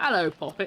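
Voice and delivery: ordinary talk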